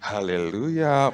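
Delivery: slow, drawn-out pious hallelujah; imitating a long-suffering polite answer; mock gentle reply. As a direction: stretch it out in feigned sweet patience. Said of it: "jawab dengan halus".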